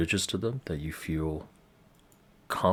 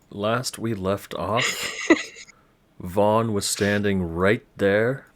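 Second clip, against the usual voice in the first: game master narration; 4 dB louder than usual. Acted. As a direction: paint the scene for the players. Game master sets the scene.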